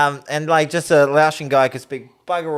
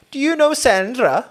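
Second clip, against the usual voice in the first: high, loud, slow imitation; naively eager question; 13 semitones higher, 7 dB louder than usual. Welsh couple asking a Kiwi about an acquaintance, naively eager. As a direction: ask it with hammed-up hopefulness.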